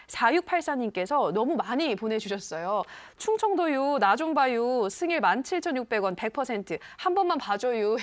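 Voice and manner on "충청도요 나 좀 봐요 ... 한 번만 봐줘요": badly imitated Chungcheong country accent; Chungcheong dialect. Host reading a viewer's text message aloud, in hammed-up Chungcheong dialect. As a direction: read the text in amateur Chungcheong dialect, lilting. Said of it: "지금 사투리 하셨는데".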